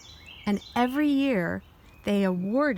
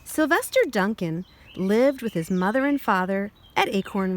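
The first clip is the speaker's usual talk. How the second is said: put-on reading to children. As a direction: clear storybook read-aloud. Reads picture book aloud.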